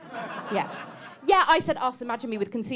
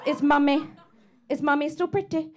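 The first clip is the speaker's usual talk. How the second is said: flirty posh mum. Pretend. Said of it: "they go".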